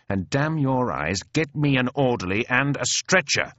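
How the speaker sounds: mildly irritated officer's command; impatient order. Acted. Wounded colonel demanding an orderly, mildly impatient. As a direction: order it with a touch of temper.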